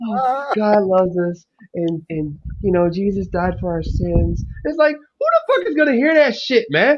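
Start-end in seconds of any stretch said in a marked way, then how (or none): 0.0-4.4 quiet, soft-spoken, soft, gentle voice. Imitating a woman who was trying to preach: imitating a soft voice. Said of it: "she sounds so soft".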